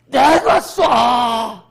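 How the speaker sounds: loud, heavily drawn-out shout; 호기로운 선언. Acted. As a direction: bellow it like a battle command. Mimics grand offer to pay. (길게 늘여 우렁차게 외치기)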